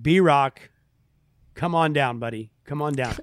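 mock game-show introduction; game-show announcer. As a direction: announce the next guest like a game-show host, drawing out the name. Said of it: "You and your Price is Right".

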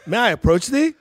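high, loud, hammed-up stage actor; a laughing send-up of a stage actor; mock Shakespeare. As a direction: ham it up like a classical audition. Mock Shakespearean audition line.

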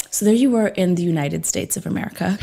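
imitated broad American narrator. Teasing the interviewer about how Americans talk, broad American. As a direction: lay it on as a broad American storyteller. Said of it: "it's so broad".

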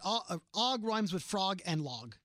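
Og, frog and log stretched slowly; slow emphatic rhyme. Shown as a demonstration. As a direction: spell out the rhyme deliberately. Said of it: "I wrote this down".

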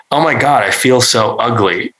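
a hammed-up whiny complaint; mock self-pity. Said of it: "in a way meant to elicit scoffs".

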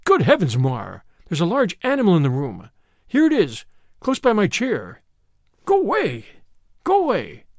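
a frightened man driving off a beast; rising alarm. Acted. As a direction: build from alarm to frantic warding-off. Man discovers beast beside his chair.

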